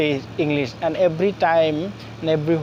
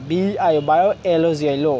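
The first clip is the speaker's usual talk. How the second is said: বায়োলজি spelled out chunk by chunk; letters, then the sound of each piece; broken into syllables; much faster than usual. Shown as a demonstration. Teacher breaking down a subject name for learners, syllable by syllable. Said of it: "আমরা ভেঙে ভেঙে".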